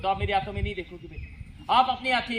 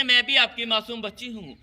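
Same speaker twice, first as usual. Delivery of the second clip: put-on pleading unborn girl. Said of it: "और कहती है".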